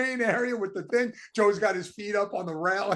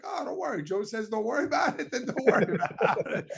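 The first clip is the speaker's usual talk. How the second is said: carefree dad; 3 semitones higher than usual. Retold or imitated. Son imitates his laid-back father brushing off his worry, airy and laughing. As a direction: lightly voice a breezy dad who is not worried at all.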